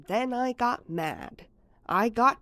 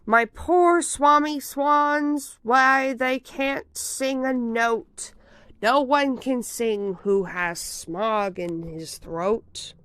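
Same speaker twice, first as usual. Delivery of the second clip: high, loud scolding creature; Lorax voice; 6 semitones higher, 5 dB louder than usual. Acted. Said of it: "with a crofulous croak".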